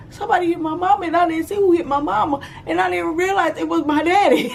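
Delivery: high voice, breaking into laughs; laughing retelling. Retold or imitated. Narrator remembering the child's confusion, high and laughing. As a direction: laugh through the memory.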